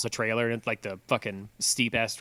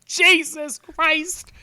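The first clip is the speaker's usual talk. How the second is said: much higher, slow stretched-out disbelief; retold shock; 4 dB louder, slower than usual. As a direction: drag the words out in stunned dismay. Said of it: "And I was like".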